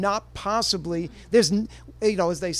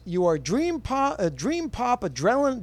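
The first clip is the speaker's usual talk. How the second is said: announcer voice; 4 semitones higher than usual. Shown as a demonstration. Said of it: "I'll do it in my best announcer voice".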